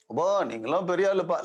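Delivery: fast, teasing mock praise in Tamil; mock flattery. Shown as a demonstration. A Tamil speaker needling his listener, fast mocking flattery. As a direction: rattle it off as sly sarcasm. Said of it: "like that".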